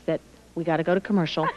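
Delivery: romantic voice. Pretend. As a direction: croon it like a lover. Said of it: "in my most romantic voice".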